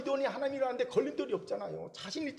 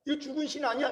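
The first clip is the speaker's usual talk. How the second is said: sarcastic mockery; 3 semitones higher than usual. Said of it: "이렇게 비꼬는 거예요".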